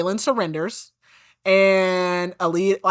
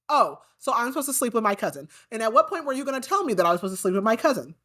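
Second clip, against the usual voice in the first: fast, higher, indignant retelling; mock outrage; 4 semitones higher, faster than usual. Aedion going off at Lysandra over the plan, mock outraged. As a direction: rattle it off like an offended cousin. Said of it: "he is pissed. He is, like, going off".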